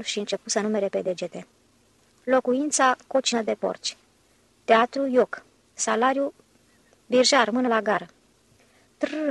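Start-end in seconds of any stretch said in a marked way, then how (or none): 2.2-8.1 angry complaint. Acted. Engineer counting grievances to the secretary, in a raised angry voice. 9.0-9.3 high thin rolled trrr to stop the horse; a higher, thin rolled r sound. A narrator's reading. Secretary stopping the cab horse, with a high thin trrr. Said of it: "făcu cu un glas subțire".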